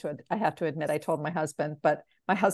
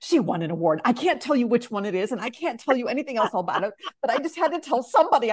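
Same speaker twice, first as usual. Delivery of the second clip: rising, louder, faster blurt; husband blurting the secret to her sister; 5 semitones higher, 4 dB louder, faster than usual. Retold or imitated. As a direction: spill the secret to the sister all at once. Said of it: "and he goes".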